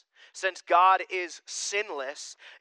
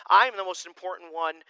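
"I am the most important one" said louder with self-importance; proud loud declaration; 6 dB louder than usual. Shown as a demonstration. Pastor mocking selfish people, proud loud claim. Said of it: "When we started saying".

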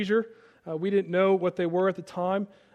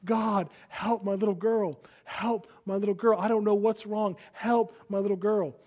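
retold sobbing plea; 3 dB quieter than usual. Father on the church steps praying for his little girl, retold sobbing plea. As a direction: plead for help in a restrained retelling of sobbing.

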